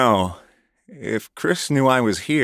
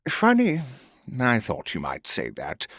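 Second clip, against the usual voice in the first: mocking; 4 semitones higher than usual. Villain taunting captive.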